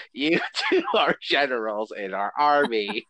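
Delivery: Coneheads voice. Acted. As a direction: speak like a formal alien ambassador. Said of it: "that was their voice I was doing".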